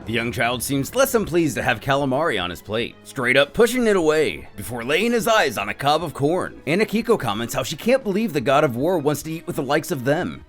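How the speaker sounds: usual speaking voice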